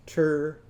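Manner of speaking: "Ter-mer-ter" with syllables held apart; "er" in every syllable. Shown as a demonstration. Teacher renames Irving's tomato, "Ter-mer-ter" in separate beats. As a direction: give "Ter-mer-ter" three long "er" beats. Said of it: "what's this gonna be called?".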